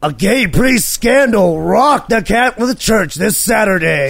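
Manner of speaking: monster truck ad. Shown as a demonstration. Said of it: "can I say that like the monster truck guy".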